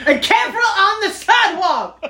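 high, laughing pirate growl; laughing mock pirate warning; pirate-like voodoo man. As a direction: ham up the pirate captain warning. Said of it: "Why does he sound like a pirate?".

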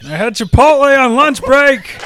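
apologising through laughter; laughing Rock voice. Acted. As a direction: break up laughing in character. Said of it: "you really channel him well".

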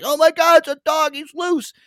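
high-pitched mock shriek of alarm; hammed-up falsetto panic; imitated panicked screaming. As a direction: mimic panicked customers in a squeaky high voice. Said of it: "people screaming in the express lane".

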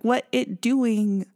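slow, deliberately mangled English of a fake bot; mocking a bot faking Black speech, slow and mangled; mock Russian bot broken English. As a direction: drag it out like a clueless bot faking slang. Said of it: "her Russian bot impersonation".

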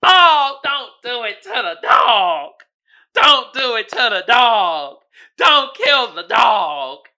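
loud, slow, begging shout for the dog; hammed-up desperate shout to spare the dog; mock screaming plea. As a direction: scream it like a horror fan losing it over the dog. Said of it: "the dude that's screaming for dear life".

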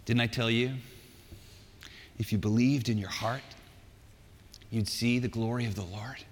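low, tender reassurance with long pauses; loving. Acted. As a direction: gently remind a doubting friend. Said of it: "you know, loving eyes".

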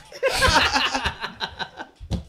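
long, high, loud cackle; villain's laugh. Acted. Outlaw laughing at the doomed interviewer, high cackle.

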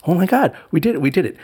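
high, bright burst of triumph; excited celebration. Retold or imitated. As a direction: cheer it like you won. Celebrating baby sleeping through.

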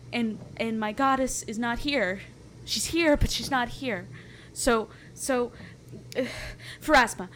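half-sobbed panic, begging to go to the temple; acted crying. A frightened woman tells her companions, voice tearful. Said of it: "She's just crying".

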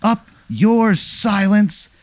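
very high, drawn-out jeer; high taunt. Acted. Dick Travels taunts Sebastian Silence, high slow jeer.

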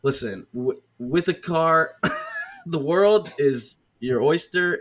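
weary, preachy cop voice; lecturing cop. Retold or imitated. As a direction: sigh and lecture the kid.

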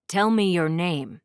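loud, hard command; demanding. Acted. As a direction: force the answer out of her. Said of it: "he demanded".

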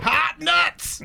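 laughing high shout. Real, not acted. Joke shout.

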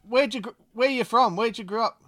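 ordinary talk

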